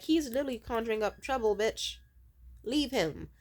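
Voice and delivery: fast, firm inner voice; quick blunt retort to yourself; blunt intuition. Acted. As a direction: lay it down as a no-nonsense intuition. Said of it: "my intuition would be like".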